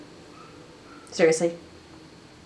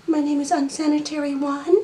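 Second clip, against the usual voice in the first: pet voice; 4 semitones higher than usual. Pretend. Voicing pet, higher.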